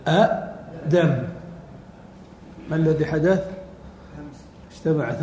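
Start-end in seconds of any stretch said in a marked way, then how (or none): 0.1-1.2 drawn out. Shown as a demonstration. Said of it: "teacher drawing out the word".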